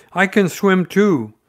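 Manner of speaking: put-on high, loud, boastful child; proud Roo. A narrator's reading. Roo proudly telling Eeyore he can swim, loud and high. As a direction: show off to the donkey. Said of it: "said Roo proudly".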